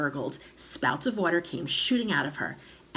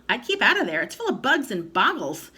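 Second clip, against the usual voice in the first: put-on louder boy's warning; 6 semitones higher, 5 dB louder than usual. A narrator's reading. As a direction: warn her off, urgent. George warning Grandma.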